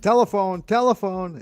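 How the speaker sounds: high parrot call; parrot imitation. Parrot telling people about the phone, high imitation. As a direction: announce it like a pet parrot. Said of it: "tell people to answer the phone".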